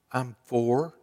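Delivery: put-on hushed little boy; child whispering. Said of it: "Still whispering".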